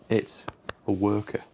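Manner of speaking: spaced out, with a pause after IT'S; measured, broken-up repeat; deliberate repeat. Acted. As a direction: repeat it word by word, breaking before A WORKER. Repeats after "What was that?.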